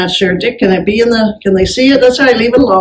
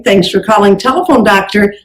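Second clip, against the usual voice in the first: phone greeting demo. Shown as a demonstration. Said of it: "Then you use your company name".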